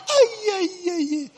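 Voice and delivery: high laughing cries of ay ay. Real, not acted. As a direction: burst into laughter on each ay. Laughing nostalgic exclamation.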